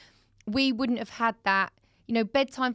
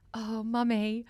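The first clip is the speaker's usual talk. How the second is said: slow down and climb in pitch as the confession bursts out; retold little girl's crying admission; mock tearful confession; 3 semitones higher than usual. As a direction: imitate an upset child, building to a high, drawn-out wail. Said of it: "And she's, like, crying".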